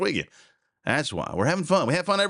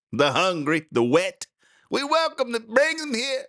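mock welcome; 3 semitones higher than usual. Mocks sanctuary city welcome.

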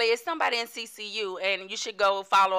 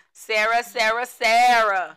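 mocking repetition; 9 dB louder, slower than usual. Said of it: "every time you see her on the phone".

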